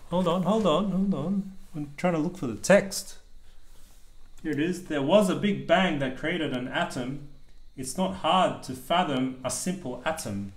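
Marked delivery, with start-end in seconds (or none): 4.8-10.5 steady rhythmic picture-book reading; reading aloud to child. A narrator's reading. Dad reading a rhyming book to his child, lilting read-aloud. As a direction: read the rhyme out to your kid.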